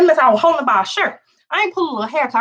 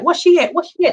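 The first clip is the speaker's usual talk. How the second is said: mild holler; 6 semitones higher than usual. Retold or imitated. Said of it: "I'm hollering for my sister".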